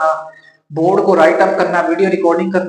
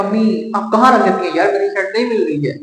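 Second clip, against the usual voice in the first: mild retold irritation, a bit higher and pushier; annoyed complaint; 3 semitones higher than usual. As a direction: grumble at mom half-angrily. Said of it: "मुझे जब गुस्सा आया तो मैंने अम्मी को ऐसे कहा". (अम्मी से झुंझलाकर हल्की शिकायत)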